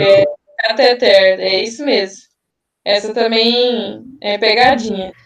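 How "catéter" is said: catéter said slowly, each syllable clear; slow stressed syllables. Shown as a demonstration. Tutor pointing out the tricky word to the group: catéter slowly. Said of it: "quem colocou catéter".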